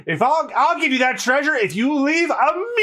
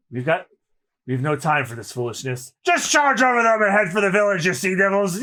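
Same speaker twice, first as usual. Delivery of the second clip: low captain voice; 5 semitones lower than usual. Acted. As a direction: order the crew in a low growl.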